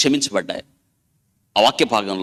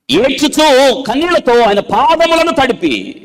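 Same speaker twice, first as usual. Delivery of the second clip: preaching at full force; 8 semitones higher, 5 dB louder than usual. Acted. Preacher tells the church of the sinful woman's tears, in a loud fervent cry. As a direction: lift the story of her tears with fervour.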